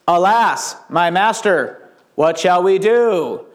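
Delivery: slow, stilted mock-theatrical reading; wooden, drawn-out lament; bad school play. Shown as a demonstration. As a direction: recite it like a child in a terrible school play. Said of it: "elementary school play".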